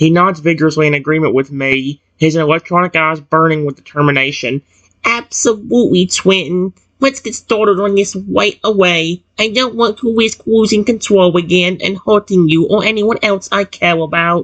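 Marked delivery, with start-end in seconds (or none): 5.0-14.4 put-on high robotic baby dinosaur voice. Narrating a story, the baby T-Rex answers his companion in a robotic baby dinosaur voice. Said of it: "It's so weird doing a robotic baby dinosaur voice".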